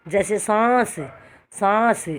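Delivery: सांस with the vowel sent through nose and throat; nasal demo of सांस. Shown as a demonstration. Teacher shows pupils the nasal vowel in सांस. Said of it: "अब सांस में से, नाक में से भी आवाज़".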